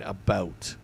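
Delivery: "about" with the O really sounded; O stressed. Shown as a demonstration. Streamer explains American speech, "about" with a full O. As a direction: lean on the open ow in "about". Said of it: "you really say the O".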